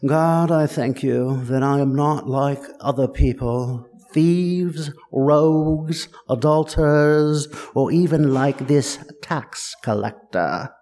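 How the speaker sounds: put-on lightly done royal British accent, self-satisfied; a touch of royal British accent in a pious prayer. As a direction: pray it like a smug British royal, only a hint of the accent. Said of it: "it could only be said in some royal British accent".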